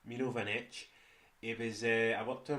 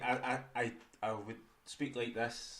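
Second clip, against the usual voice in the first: speaking really slow; 4 dB quieter, slower than usual. Shown as a demonstration. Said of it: "I'm just speaking really slow".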